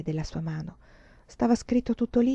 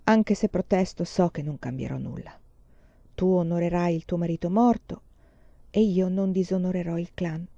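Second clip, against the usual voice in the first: lifeless voice. Acted. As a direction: let the life drain out of it. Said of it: "la sua voce era senza vita".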